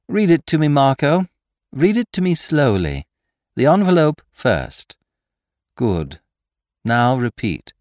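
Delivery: high, eager telephone orders; Lupin directing Marco. A narrator's reading. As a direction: coax the letter out of your accomplice. Lupin instructs accomplice by telephone.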